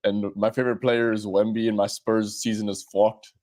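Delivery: mock Australian accent; hammed-up Australian; Aussie accent. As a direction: put on a broad Aussie accent. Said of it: "I'll do an Aussie accent".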